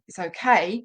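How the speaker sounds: level, easy "It's okay" said at normal pitch; calm reassurance. Shown as a demonstration. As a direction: settle the dog with a steady, even tone. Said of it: "reassure your dog by saying".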